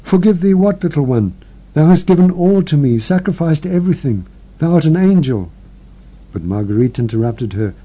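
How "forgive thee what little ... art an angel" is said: higher, tearful, broken protest; through her tears. Acted. Elder sister answering her dying sister through tears. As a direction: plead through sobs that she is an angel. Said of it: "stammered through her tears".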